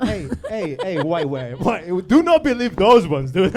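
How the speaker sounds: mock warning shout.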